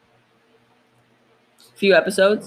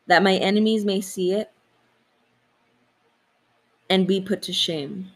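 measured scripture reading with long pauses; prayer reading. Real, not acted. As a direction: read the prayer out solemnly, phrase by phrase. Reads a psalm aloud.

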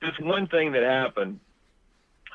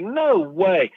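raised, louder retold amazement; imitated disbelief; 5 semitones higher, 5 dB louder than usual. Lady reacts to the news, imitated disbelief. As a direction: echo her amazement, pitched up. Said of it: "She was like".

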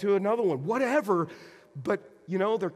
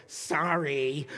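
grudging sorry; 2 semitones lower than usual. Retold or imitated. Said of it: "like that".

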